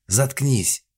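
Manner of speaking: loud, high shut-up; angry snap. A narrator's reading. Mother silences crying daughter with a loud shout. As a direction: cut her off harshly.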